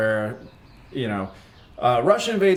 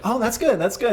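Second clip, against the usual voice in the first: high mock girlfriend voice; 11 semitones higher than usual. Girlfriend's reaction voiced in story.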